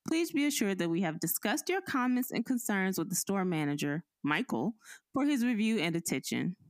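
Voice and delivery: lightly formal corporate letter read; reading the email. Acted. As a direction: read it like a stiff customer-service letter. Reads company email aloud.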